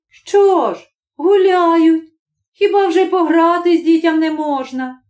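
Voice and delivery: put-on wife defending the children's play to her husband; wife defending kids. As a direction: brush off his anger.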